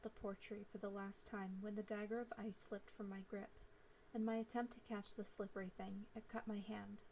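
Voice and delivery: even, unhurried storytelling read; story narration. A narrator's reading. Author reading her story to listeners, calm narration. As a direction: read it like an audiobook chapter.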